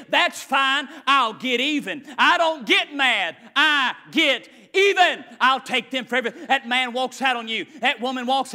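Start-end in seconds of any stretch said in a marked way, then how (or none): 0.1-6.5 vengeful inner voice. Retold or imitated. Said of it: "this is what we say".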